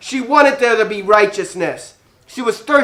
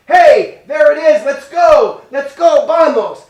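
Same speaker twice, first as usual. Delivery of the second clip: higher, louder rally cry; 5 semitones higher, 3 dB louder, slower than usual. Acted. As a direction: get the kids up and going. Rallying kids excitedly.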